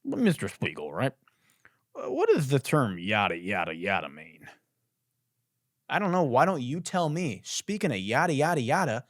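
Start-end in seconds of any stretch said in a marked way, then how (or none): 0.0-4.5 put-on old white man senator voice. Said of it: "I'm doing my old white, uh, man senator voice again".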